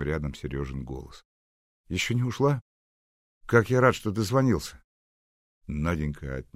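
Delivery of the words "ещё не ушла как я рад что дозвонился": put-on glad young man. Seryozha glad on the phone.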